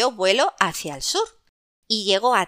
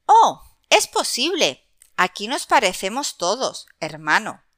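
friendly starling voice. Acted. Other starling answers.

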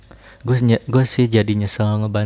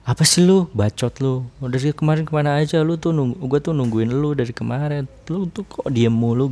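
angry sibling rant; 4 semitones higher than usual. Retold or imitated. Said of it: "Adik lu kayak".

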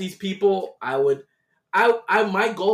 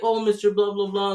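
higher-pitched mock greeting; put-on eager-to-please greeting; fawning supervisor; 5 semitones higher than usual. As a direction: imitate a supervisor sucking up to a customer. Supervisor greets a favoured customer.

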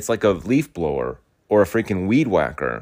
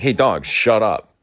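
louder, drawn-out mock yell; retold yell; 2 semitones higher, 5 dB louder, slower than usual. Retelling telling the neighbour's dog off, a moderate mock yell. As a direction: imitate yelling at a dog, half full force. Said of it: "I start to yell at it".

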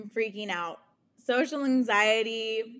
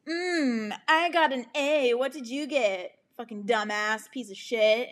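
put-on bragging smart kid; 2 semitones higher than usual. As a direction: imitate a smug kid showing off a grade. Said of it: "the smart kids would brag being like".

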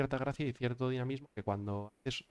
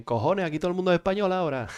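higher and louder with amazed disbelief; excited loud exclamation; 8 semitones higher, 7 dB louder than usual. Retold or imitated. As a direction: blurt it out, astonished and amused. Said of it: "Y dicen".

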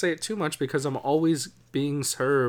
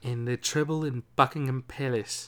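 mock posh British; 4 dB quieter than usual. Host asks cohost if it nailed the posh British accent. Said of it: "Did I nail it?".

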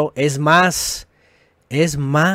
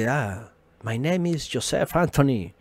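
mock English introduction; 2 semitones lower, 10 dB quieter than usual. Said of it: "yo no puedo llegar y".

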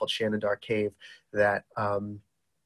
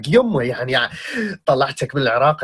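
an Iraqi mother's pleading scold, in Arabic; a hint of a mother refusing her son's trip to Iraq; worried mom; 3 semitones higher, 6 dB louder, much faster than usual. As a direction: scold your son like a worried mom, a bit louder. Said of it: "And she's like".

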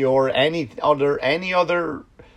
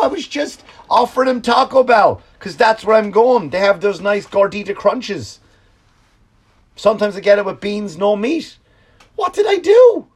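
much higher, louder whiny protest; high whining fired office worker; pleading fired worker; 9 semitones higher, 5 dB louder than usual. Retold or imitated. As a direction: plead your innocence in a high voice.

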